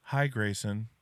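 sweet, chirpy greeting; friendly toddler voice. Retold or imitated. Dad imitating his son greeting himself, friendly. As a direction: say hi brightly like a toddler. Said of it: "he just goes".

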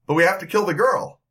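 high, insistent henchman; protesting henchman. Acted. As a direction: plead to finish the job. Slovak guy protests.

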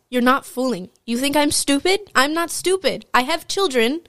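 imitated teacher telling a student off; mildly indignant mock scolding, pitch climbing; teacher going off. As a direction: go off on the student, retold lightly. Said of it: "went off on him".

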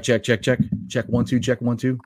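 robotic droid-like distorted line; garbled, Terminator-like connection; call dropping out. Real, not acted. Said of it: "you sound like the Terminator or some type of droid".

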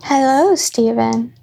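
hello in a hammy fake medieval accent; put-on Elden Ring accent; bad put-on accent. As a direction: greet with a badly faked fantasy-game accent. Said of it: "turn to do the bad accent".

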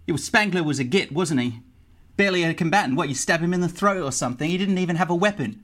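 hint of a nervy crook, quick; quick, slightly put-on character voice; lightly voiced elf guard. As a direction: talk fast as a wary non-player character. Game master voices the elf guard.

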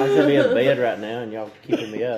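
lightly voiced tired old grandpa; hammed-up tired old man. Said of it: "Don't ham it up too much".

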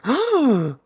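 a quick, high, startled gasp; sharp gasp. Retold or imitated. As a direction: gasp as it suddenly clicks. Mamoru realizes about the earring.

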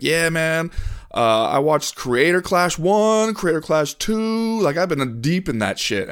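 high, slow, laid-back bro drawl. Retold or imitated. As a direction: play a bro bragging. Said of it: "they'll be like".

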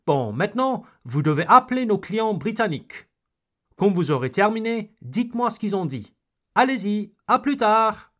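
brisk, fast, high-pitched boss; bossy French boss. Pretend. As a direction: rattle off orders like a hurried boss. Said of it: "your boss says to you".

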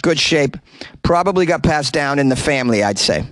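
put-on light Boston accent news read. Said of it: "embellish it with a Boston accent".

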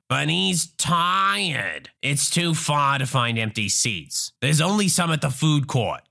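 lightly voiced complaining Karen; entitled mother. Entitled mother argues her son is tired, a drawn-out mild complaint. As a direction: drag out the complaint. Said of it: "Entitled mother".

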